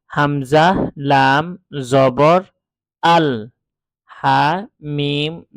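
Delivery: name each letter, জবর, then the sound আল, হা, মিম one by one; spelling letter by letter. Shown as a demonstration. Teacher shows the old spelling method, letter by letter. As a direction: spell it out: হামজা, লাম, জবর, আল. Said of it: "আমরা উচ্চারণ করেছি হচ্ছে এভাবে".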